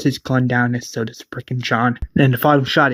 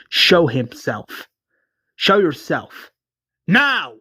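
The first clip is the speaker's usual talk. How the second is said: demanding; 3 semitones higher, slower than usual. Acted. Rick draws gun on stranger.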